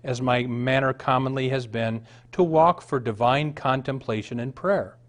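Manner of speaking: put-on a fervent reading of an old testimony, building in force; earnest reading. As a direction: read it like a rapt confession. Reads Edwards' account aloud.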